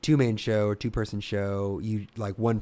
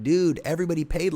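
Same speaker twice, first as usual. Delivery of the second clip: higher, louder incredulous protest; exasperated retort; 7 semitones higher, 5 dB louder than usual. Retold or imitated. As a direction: object in exasperation, pitched up. Retells arguing with bar manager.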